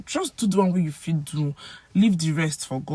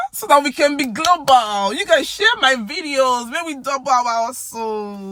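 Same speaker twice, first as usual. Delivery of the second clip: high, louder rallying cry; rallying plea; 6 semitones higher, 4 dB louder than usual. Pretend. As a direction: cheer the viewers on, pitched up. Rallying viewers to share videos.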